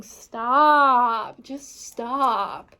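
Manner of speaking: loud "Stop", then a firmer "just stop"; commanding card voice. Pretend. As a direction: halt the listener like a commanding voice. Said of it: "this is saying".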